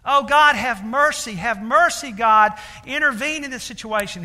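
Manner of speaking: high, loud cry for mercy; a church lady crying out loudly for mercy; retold loud pleading. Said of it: "starts calling out in a loud voice".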